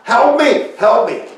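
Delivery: high, loud cry for help; screamed plea. Acted. Peter sinking in the lake calls to Jesus, screamed plea. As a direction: yell it out like a man sinking. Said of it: "I screamed out".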